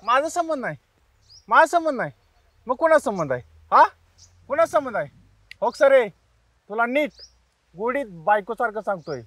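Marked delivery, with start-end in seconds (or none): 0.0-5.1 angry. Acted. Thug confronting the girl.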